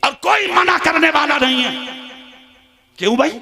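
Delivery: forceful, echoing sermon delivery; fiery preaching. Real, not acted. Preacher to congregation about crowded fairs and bazaars, fiery preaching. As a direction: scold the congregation in pointed bursts.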